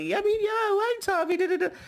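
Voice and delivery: high squeaky voice playing it cool; imitating a friend faking nonchalance; mock high-pitched brush-off. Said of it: "Biggie tries to play it off like".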